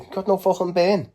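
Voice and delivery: high-pitched, aggressive mock Scouser; Scouse windup with horrible attitude; hostile Scouse accent. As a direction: sneer it in a high put-on Scouse voice. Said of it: "I'd be hostile and that".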